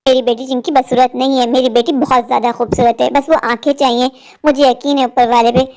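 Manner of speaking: low, tender motherly comfort; tender reassurance. Acted. Mother consoling her dejected daughter, tender and reassuring.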